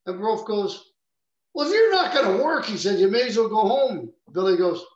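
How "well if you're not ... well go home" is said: loud, high-pitched coach's challenge; acted coach's ultimatum. Coach tells injured player to work, loud ultimatum. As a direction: raise your voice, laying down the law.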